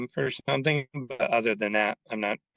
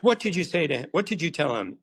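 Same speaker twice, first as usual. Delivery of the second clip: higher-pitched mock indignation; imitated indignant demand; 6 semitones higher, faster than usual. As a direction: demand an answer, acting out a colleague's alarm. Acts out Fabian's alarmed confrontation.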